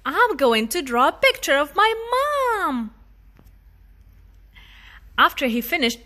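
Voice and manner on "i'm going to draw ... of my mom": put-on child voice. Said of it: "Daniel said".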